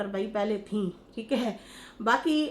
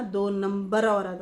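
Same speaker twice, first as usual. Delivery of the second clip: slow, mock-scornful label; mildly disdainful imitation, words spaced out; imitated insulting tone; slower than usual. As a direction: drawl the insult, mimicking her tone. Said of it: "ये जो आपका tone था".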